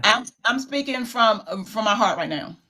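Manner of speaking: holding back tears. Real, not acted. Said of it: "I'm gonna try not to cry".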